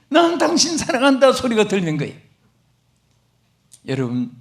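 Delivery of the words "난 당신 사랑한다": echo with a laugh. Retold or imitated. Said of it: "산울림이 해가지고 자기 귀에".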